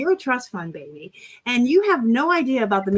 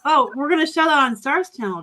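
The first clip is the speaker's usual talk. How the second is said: mock outrage; 4 semitones higher than usual. Real, not acted. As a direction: shout it in playful outrage. Mock-outraged shout at Doug.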